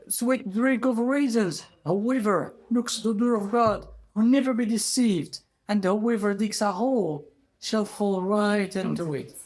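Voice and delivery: high, measured proclamation; reciting a saying. Acted. Ghirab recites his phrase.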